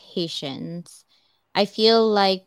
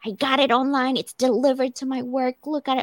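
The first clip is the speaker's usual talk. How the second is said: a bit higher and eager, showing off the gift; retold excited husband; 5 semitones higher than usual. Husband calls friend about the purse, mildly excited. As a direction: relay his thrilled phone call with some lift. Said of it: "he was so excited".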